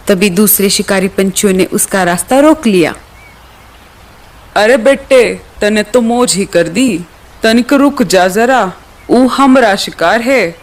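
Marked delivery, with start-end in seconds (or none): 4.6-10.6 a hint of a village bully in a drawn-out call; rustic rival hunter bird. Rival birds claiming the prey from the eagle, rustic. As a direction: lean on the dialect, lightly.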